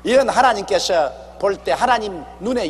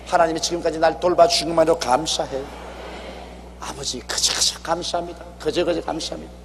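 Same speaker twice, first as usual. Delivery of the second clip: softer, hushed thankful prayer; humble prayer; 3 dB quieter than usual. Acted. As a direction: pray quietly as a grateful believer. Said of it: "그저 하나님께 감사하고". (조용하고 겸손한 감사 기도)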